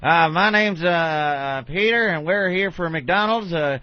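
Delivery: chipper corporate pitchman voice; corporate spokesman. Retold or imitated. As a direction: play an upbeat company rep. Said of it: "every year they got the".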